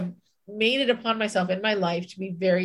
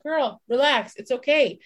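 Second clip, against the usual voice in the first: self-soothing; 4 semitones higher than usual. Retold or imitated. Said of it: "and I was like".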